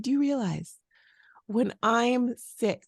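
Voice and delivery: drawn-out "when I'm sick"; slow emphatic. Retold or imitated. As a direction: slowly lay it out. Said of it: "I said to him".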